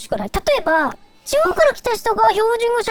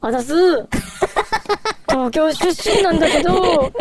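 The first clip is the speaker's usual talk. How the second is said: fake Tohoku fan; 3 semitones lower than usual. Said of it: "東北の人に会って".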